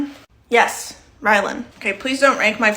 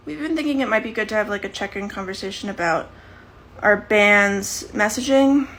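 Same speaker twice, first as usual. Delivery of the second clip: stiff formal talk. Acted. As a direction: drag out "messaging" like a delicate HR talk. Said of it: "why are you talking like that".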